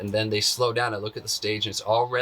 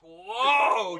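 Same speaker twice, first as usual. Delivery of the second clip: high, drawn-out amazed cry; reliving amazement, pitch shooting up; astonished; 11 semitones higher than usual. Retold or imitated. Dancer hearing his own thought spoken aloud, high astonished cry. Amazed reaction to apparent telepathy.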